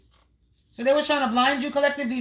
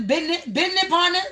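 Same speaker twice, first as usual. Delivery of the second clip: "business partners" jumps up high, a quirky singsong; odd high business partners; 5 semitones higher than usual. Real, not acted. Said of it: "I don't know why I said it like that".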